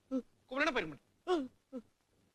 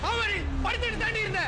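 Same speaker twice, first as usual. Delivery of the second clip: 1 sharp retort; 9 semitones higher, 5 dB louder than usual. Acted. Angry friend retorts in quarrel.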